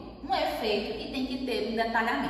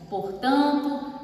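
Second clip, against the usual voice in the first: quoting a stock opener; 3 semitones higher, much slower than usual. Shown as a demonstration. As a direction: stretch "portanto" like a formal essay opener. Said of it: "tem gente que começa assim". ("portanto" dito devagar, como abertura de redação)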